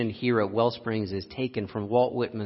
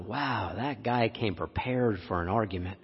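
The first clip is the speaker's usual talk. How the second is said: quiet inner thought; 2 semitones lower, 5 dB quieter than usual. Retold or imitated. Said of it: "I thought".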